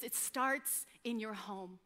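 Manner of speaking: soft, slow voice of the Holy Spirit; small whisper from the Spirit. Retold or imitated. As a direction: say it gently, like a still small voice. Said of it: "very small whisper".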